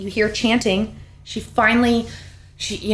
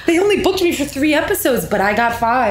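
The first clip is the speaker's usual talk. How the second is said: laughing; 4 semitones higher than usual. Pretend. Mock character quote while laughing.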